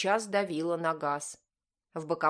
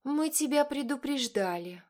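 much higher, sugary gloating; sweetly; 8 semitones higher than usual. A narrator's reading. Elder Voytovich gloating sweetly at Gantsev, high voice. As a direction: purr it with smug sweetness. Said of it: "сладко проговорила Войтович-старшая".

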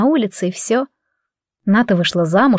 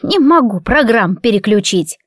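put-on slow, plaintive old woman's grumble; mild old-lady complaint; complaining. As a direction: whine about the remote. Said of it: "пожаловалась".

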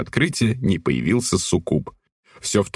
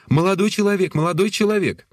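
calling out; 12 semitones higher than usual. A narrator's reading. Woman calls after him.

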